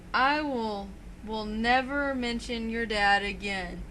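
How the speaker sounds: slow, deliberate mock vow; retold heartfelt. Wrestling fan quoting a rival's promise to Punk, mock heartfelt. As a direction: imitate a sincere apology, drawing it out. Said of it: "Very heartfelt".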